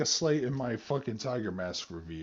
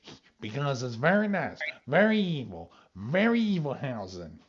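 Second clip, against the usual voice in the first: lightly voiced weird, theatrical villain; a hint of a campy evil wrestler persona; Danhausen impression. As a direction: imitate an oddball evil character, swooping pitch on the key words. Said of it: "he has this weird voice".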